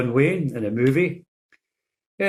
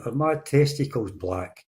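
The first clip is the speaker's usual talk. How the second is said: mumbled through a mask; slower than usual. Retold or imitated. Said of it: "And he mumbles again".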